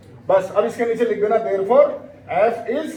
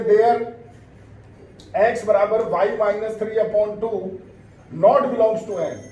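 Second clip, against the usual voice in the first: drawn out, word-by-word dictation; measured board-work dictation, lingering on each term; slow dictation; much slower than usual. Real, not acted. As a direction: dictate slowly for students writing it down. Dictating the line to write.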